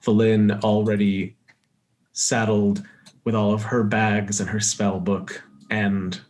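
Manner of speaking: measured game master narration; scene setting. Acted. Game master describes daybreak at camp, measured narration. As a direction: set the scene in an even storyteller's voice.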